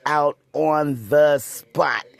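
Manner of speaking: slow breathy whisper; whispered aside. Real, not acted. Telling the interviewer she threw the bed out, whispered. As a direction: hush it like a secret.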